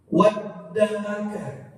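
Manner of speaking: very slow "Wadda'aka" with a clear ain, not a hamzah; correct ain. Shown as a demonstration. Teacher modelling the ain sound for students. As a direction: stretch "Wadda'aka" keeping the throat ain. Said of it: "Jangan sampai dirubah".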